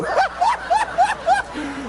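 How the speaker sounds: high burst of laughter; real laugh. Real, not acted.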